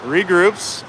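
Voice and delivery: chuckling through the call; laughing while calling. Real, not acted. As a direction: laugh between words. Laughing at a botched play.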